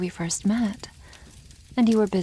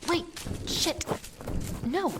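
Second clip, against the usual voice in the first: raised, higher call after someone running away; 10 semitones higher, 5 dB quieter than usual. Acted. Dragon calls after the fleeing human, raised and higher. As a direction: call out to stop them fleeing.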